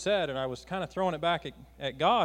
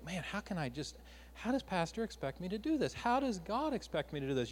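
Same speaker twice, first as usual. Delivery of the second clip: overwhelmed muttering; 2 semitones higher, 6 dB quieter than usual. Retold or imitated. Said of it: "you begin to think about this".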